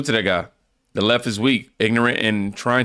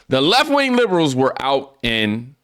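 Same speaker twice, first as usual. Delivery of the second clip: higher, deliberate second take; restarted reading; 5 semitones higher than usual. Real, not acted. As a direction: start over with raised pitch. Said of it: "start over".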